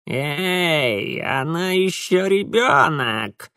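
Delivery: slow creaky objection; creaky protest. A narrator's reading. Mara protesting to Mitya in creaky voice. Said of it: "скрипнула Мара".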